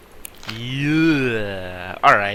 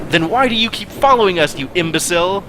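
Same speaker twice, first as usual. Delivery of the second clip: higher, louder indignant retort; hammed-up yell; 7 semitones higher, 4 dB louder than usual. Allegra yelling back at Captain Black, hammed-up. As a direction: shout back at the pirate. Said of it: "Captain Allegra yelled back".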